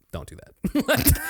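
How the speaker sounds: high-pitched drawn-out protest; mock objection. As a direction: imitate someone begging you to stop. Acting out colleagues objecting to accent.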